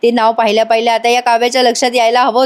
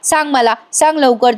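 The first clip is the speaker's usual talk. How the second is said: mild angry demand. Acted. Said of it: "Kavya चिडून म्हणते".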